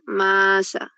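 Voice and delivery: MASA drawn out, first syllable held long; slow, teacherly "Maa-sa" showing both syllables. Shown as a demonstration. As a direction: stretch "Masa" into two syllables, ma-sa. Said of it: "Acá estas dos sílabas son libres".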